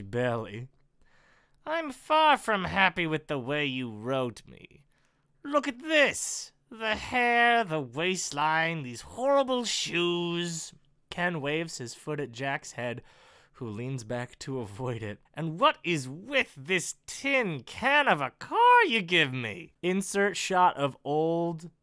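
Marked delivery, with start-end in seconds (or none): 1.7-10.7 lightly voiced disgruntled villain; slow, mildly indignant list of complaints; villain Ken. Character complains to his writer about his looks, mildly indignant. Reads villain Ken's dialogue. 15.3-19.7 lightly voiced indignant villain; villain Ken. Character blames writer for his car, mildly indignant. Reads villain Ken's dialogue.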